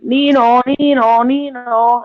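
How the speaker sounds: calling Nino out the window, loud; sing-song shout of a name; shouting a name across the street. Retold or imitated. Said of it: "I normally shout".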